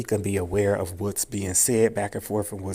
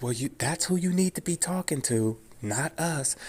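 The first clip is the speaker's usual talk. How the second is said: retold scared; 6 semitones higher than usual. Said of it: "she was scared".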